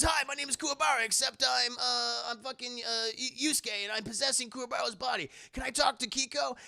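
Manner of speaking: high, loud, fast doofus voice; goofy Kuwabara voice. Retold or imitated. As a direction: blurt it out like a cheerful idiot. Yusuke in Kuwabara's body.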